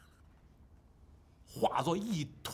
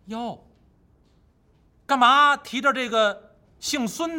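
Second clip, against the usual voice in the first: teasing wife voice; 3 semitones higher than usual. Acted. Wukong as wife mocks Pig.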